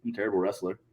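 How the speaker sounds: soft, mock-sheepish admission; retold self-deprecation. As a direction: take the blame under your voice, as if retelling. Retold self-blame after the botch.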